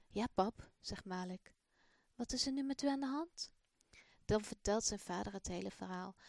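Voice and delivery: put-on expressive storybook reading for children; children's story voice; story narration. A narrator's reading. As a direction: tell the story warmly to young listeners. Reads the Malik story aloud.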